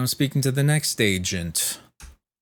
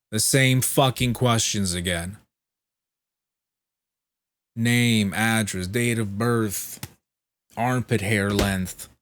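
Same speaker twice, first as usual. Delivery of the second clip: exasperated; 4 dB louder than usual. Real, not acted. Exasperated listing of questions.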